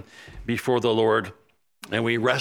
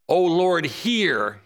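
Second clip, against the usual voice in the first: urgent plea; 3 semitones higher, much slower than usual. Retold or imitated. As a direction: call out O Lord, then drop on hear. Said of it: "he's urging God to hear him".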